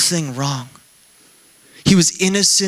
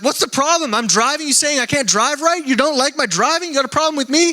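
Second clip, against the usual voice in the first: higher, hammed-up indignant husband; mock defensive husband; 10 semitones higher than usual. Husband retelling how he argued with his wife, mock indignant. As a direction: play the touchy driver picking a fight.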